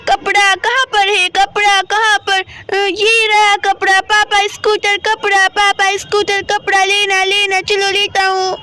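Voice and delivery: a hint of a child character, talking to himself; lightly done story-boy chatter, word by word; lightly voiced little Shivam. Voices boy Shivam finding cloth. (हल्की-सी बच्चे शिवम की आवाज़)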